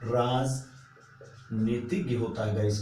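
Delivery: राजनीतिज्ञ said slowly with a short ई-sound clear; slow careful word. Shown as a demonstration. Teacher correcting spelling, slow राजनीतिज्ञ. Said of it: "राजनैतिक नहीं".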